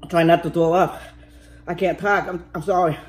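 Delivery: talking through a numb, burning mouth; words slurred by a numb mouth. Real, not acted. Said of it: "my mouth is numb".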